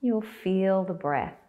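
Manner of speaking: calm guidance in short, spaced-out phrases; guided meditation. Acted. Teacher guiding belly breaths, unhurried guided meditation. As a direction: leave long silences for them to breathe.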